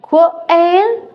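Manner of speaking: "Quail" lifted high at the end like a question; rising question tune. Shown as a demonstration. Teacher drilling "Quail" with a rise. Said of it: "it's qu".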